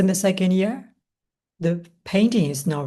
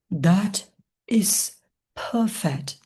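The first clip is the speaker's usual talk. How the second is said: cried out; 2 semitones higher, much slower than usual. A narrator's reading. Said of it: "he cried".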